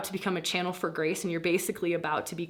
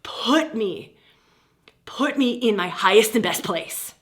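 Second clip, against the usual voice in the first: earnest prayer; 3 semitones higher, 6 dB louder than usual. Shown as a demonstration. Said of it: "and then go".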